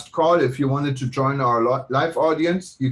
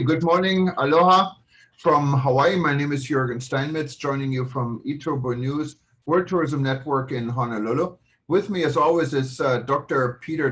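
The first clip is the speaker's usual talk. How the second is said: show host opening. Acted. Host opens the live show.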